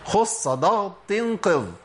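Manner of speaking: خص ضغط قض said slowly with full emphatic letters; slow mnemonic recital; heavy letters spelled slowly. Shown as a demonstration. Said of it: "أقولهم أنا".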